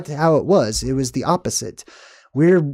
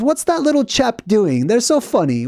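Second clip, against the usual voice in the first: lightly voiced, high-pitched amused onlooker; high, curious delight at the little creatures; a hint of a tickled deity peering down; amused God; 7 semitones higher than usual. God amused watching tiny humans.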